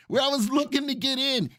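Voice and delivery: laughing through the line. Real, not acted. Host to chat, repeating himself with a laugh. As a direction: chuckle while repeating it.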